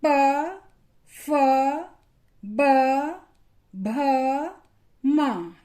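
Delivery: प फ ब भ म said one by one, lips closing on each; teacher models lip sounds for children; lip consonants demo. Shown as a demonstration. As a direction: sound out each bilabial slowly and separately. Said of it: "इन वर्णों का जब हमने उच्चारण किया".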